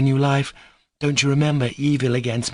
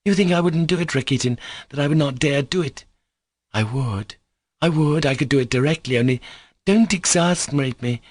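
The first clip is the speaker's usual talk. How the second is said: hysterical scream; 7 semitones higher than usual. A narrator's reading. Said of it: "in an hysterical scream".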